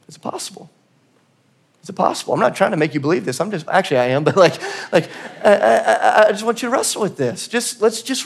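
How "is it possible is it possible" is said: hushed whisper, almost no voice; a whispered question left hanging. Real, not acted. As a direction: lean in and whisper it twice.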